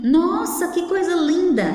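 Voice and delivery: high-pitched admiring exclamation; exclaimed admiration. Shown as a demonstration. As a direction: exclaim in wonder at something lovely. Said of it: "Pra indicar uma admiração".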